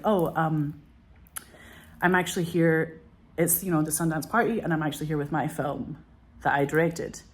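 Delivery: polite, measured explanation; calmly quoting her own courteous reply; calm and respectful. Retold or imitated. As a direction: gently set them straight, hesitant at first. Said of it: "very calmly and very respectfully".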